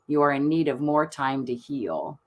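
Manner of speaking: calm, even reading of the oracle card; soothing oracle-deck narration. Acted. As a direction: read it out like a gentle ritual guide. Reads oracle card text aloud.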